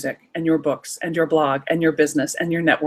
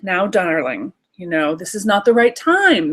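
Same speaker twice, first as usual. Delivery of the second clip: condescending parent. Acted. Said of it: "what does your conservative parent say".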